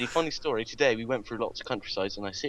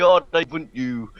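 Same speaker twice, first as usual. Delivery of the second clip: seductive voice; 4 semitones higher, 6 dB louder than usual. Pretend. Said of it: "in the most seductive voice".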